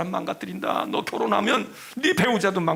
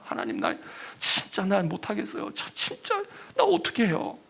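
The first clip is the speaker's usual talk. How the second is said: anguished plea; 5 semitones higher, 3 dB quieter than usual. Retold or imitated. Jeremiah crying he cannot go on.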